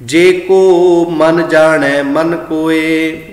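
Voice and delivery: slow sung paath; gurbani recitation. Acted. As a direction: recite the verses slowly, chanting. Chants the passage. (ਹੌਲੀ ਗਾ ਕੇ ਪਾਠ)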